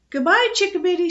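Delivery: high, loud cheery father; affectionate, ringing send-off; fond farewell. A narrator's reading. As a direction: call a fond goodbye, lifted and loud. Father says goodbye to daughter.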